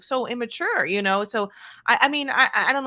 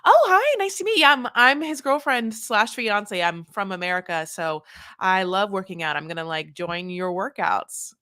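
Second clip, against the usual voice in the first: passive-aggressive nice. Pretend. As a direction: gush with fake sweetness at a rival. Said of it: "over-the-top kind of passive-aggressive nice thing".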